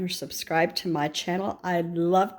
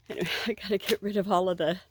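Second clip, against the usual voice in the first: breathless, hurried words; out of breath; faster than usual. Real, not acted. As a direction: talk while catching your breath. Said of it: "I'm out of breath".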